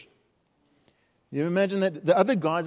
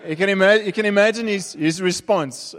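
excited build; 5 semitones higher, 4 dB louder than usual. Real, not acted. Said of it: "building up to Peter's response".

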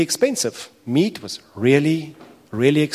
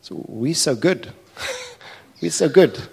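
smug self-praise; 3 semitones higher than usual. Acted.

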